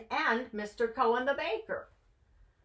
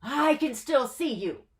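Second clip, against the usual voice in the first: crying out; 4 semitones higher than usual. Acted. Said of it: "cried Mendel".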